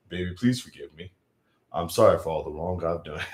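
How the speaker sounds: a hint of a smooth R and B lover begging; deep voice. Shown as a demonstration. To his partner on the live, a mildly deep pleading croon. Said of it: "using the deep voice that I normally use".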